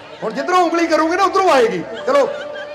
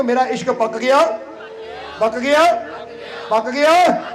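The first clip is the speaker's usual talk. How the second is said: building declaration; slower than usual. Shown as a demonstration. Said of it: "ਹੁਣ ਕਹਿ ਦਿਓ".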